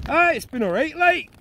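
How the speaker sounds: second try at a bad Scottish accent; hammed-up Scottish attempt that sounds Geordie; Scottish accent sliding Geordie. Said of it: "I still sound like a Geordie".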